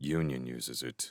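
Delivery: low, hushed, kept-down murmur. Narrator reads a supervisor answering a prisoner, in a low voice. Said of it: "the supervisor said in a low voice".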